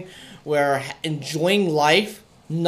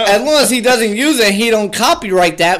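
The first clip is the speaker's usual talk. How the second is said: laughing while talking; 3 semitones higher, 4 dB louder than usual. Real, not acted. Laughing at the clown name.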